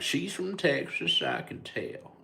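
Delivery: dad imitating son's old man voice; imitating son's little old man voice. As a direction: mimic a kid doing a tiny old man croak. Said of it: "a little old man voice the way I do".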